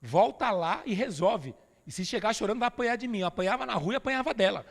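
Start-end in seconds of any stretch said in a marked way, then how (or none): 0.0-3.2 stern mother. Retold or imitated. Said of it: "minha mãe falava pra mim".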